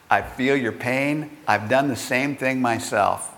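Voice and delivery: understated fellow-feeling, voice dropped slightly; gently commiserate as one who's been there; imagined sympathy. Retold or imitated. McGuigan imagining seeing someone make his mistake, sympathizing. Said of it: "he would sympathize".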